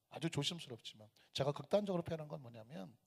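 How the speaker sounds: ordinary talk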